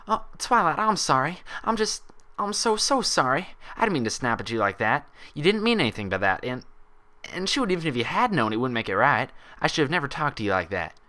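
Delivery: high, remorseful and pleading; ashamed apology. A narrator's reading. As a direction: apologize profusely, full of shame. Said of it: "Her voice echoed her shame as she apologized".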